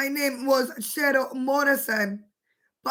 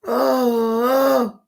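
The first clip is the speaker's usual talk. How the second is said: laughing; 4 dB louder than usual. Real, not acted. Laughing fit with coffee.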